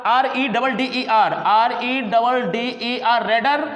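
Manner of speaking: teacher dictating letters slowly to class; slow spelling. Shown as a demonstration. Letter-by-letter slow dictation. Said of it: "जब red लिखा है तो red का क्या हो जाएगा".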